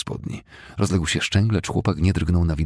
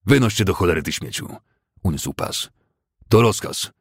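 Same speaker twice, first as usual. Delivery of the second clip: roared order; 3 semitones higher, 4 dB louder than usual. Acted. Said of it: "głosem starszego kadeta z West Point ryknął".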